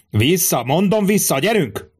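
high-pitched, restrained yell; insistent yelling. A narrator's reading. Centurion drives back the crowd, acted yell. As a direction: press the order home, climbing in pitch.

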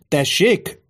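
high-pitched incredulous query; taken aback. A narrator's reading. Tribune stares at the centurion, taken aback. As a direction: react as if misheard. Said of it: "bámult Quintilius a centúrióra".

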